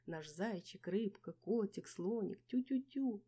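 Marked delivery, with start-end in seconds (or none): 2.5-3.2 cooing mother. A narrator's reading. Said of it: "долго радостно охала".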